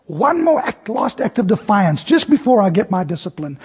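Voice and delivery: a hint of a stern parent calling. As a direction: summon the child like a fed-up teacher. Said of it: "a parent or a teacher says".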